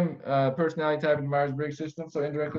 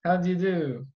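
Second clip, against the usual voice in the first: put-on British accent; 3 semitones higher than usual. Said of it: "I will do my British".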